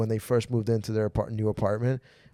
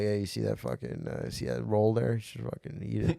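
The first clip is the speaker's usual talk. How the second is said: pushy grandpa; 5 dB quieter than usual. Retold or imitated. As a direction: quietly push food on someone as a grandpa. Imitates grandpa pushing food.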